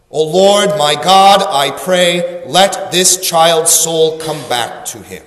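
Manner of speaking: measured, firmly voiced plea to God; earnest prayer. Elijah praying for the child's life, earnest plea. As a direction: pray it out steadily, settling toward the end. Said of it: "And so he prays".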